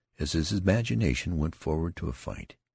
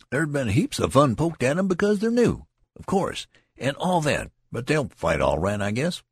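animated; 11 semitones higher, 6 dB louder than usual. A narrator's reading. Tall soldier holding forth.

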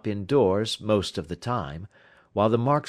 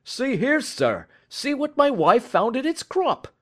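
high, eager, breathless; excited; 3 dB louder than usual. A narrator's reading. Commissionaire showing Holmes the gem, breathless with excitement. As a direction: thrust it forward, bursting to show. Commissionaire shows the found jewel.

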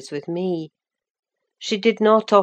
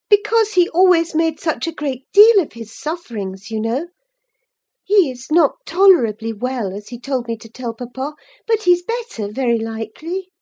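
put-on higher, brighter girl's voice, eager; young Cathy, lively; 8 semitones higher, 5 dB louder than usual. A narrator's reading. Cathy talking to Ellen about Linton, lively young voice. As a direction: play the young lady, quick and sure.

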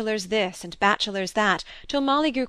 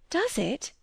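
eager; 7 semitones higher, 3 dB quieter than usual. A narrator's reading. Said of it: "said Molly eagerly".

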